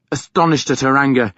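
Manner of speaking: ordinary delivery, nothing marked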